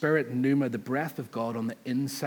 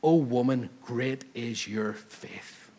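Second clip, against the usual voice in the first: earnest proclamation; much slower than usual. Retold or imitated. Jesus praising the Canaanite woman's faith, slow and earnest. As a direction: proclaim it, then linger slowly on the praise. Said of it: "then Jesus says".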